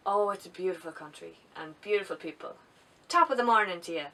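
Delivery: mock stage-Irish leprechaun accent, lightly done; bad leprechaun accent. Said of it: "worst leprechaun accent that you ever did hear".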